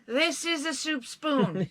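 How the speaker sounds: "soup spoon" spelled out with playful emphasis; pointed, deliberate stress through "soup spoon"; emphatic clarification. Acted. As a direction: announce "this is a soup spoon" word by word. Clarifying for everyone who messages.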